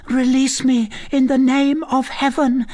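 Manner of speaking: high, terrified entreaty; desperate plea. A narrator's reading. Condemned girl begs to be released, desperate. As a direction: implore in a high, urgent voice.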